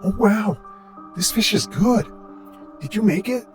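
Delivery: high, delighted stranger's voice; pleased guest. A narrator's reading. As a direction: marvel at the taste, pitched well up. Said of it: "as if pleased as to the taste".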